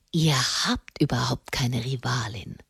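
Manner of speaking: low, soft, half-whispered hoarseness; hoarse whisper. A narrator's reading. Lover reassures Monna Giulia in his arms, hoarse whisper. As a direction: murmur it hoarsely, close and hushed. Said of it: "flüsterte er heiser".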